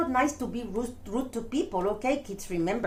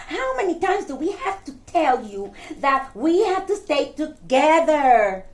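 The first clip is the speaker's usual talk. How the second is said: exasperated scolding. Acted. Muffy scolds Stinky for wandering off, exasperated. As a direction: scold like a fed-up parent.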